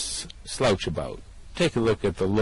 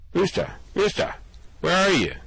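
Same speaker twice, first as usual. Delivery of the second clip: panicked calling out across the void; 11 semitones higher than usual. Acted. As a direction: shout for Rooster, who has vanished. Calling for a vanished friend.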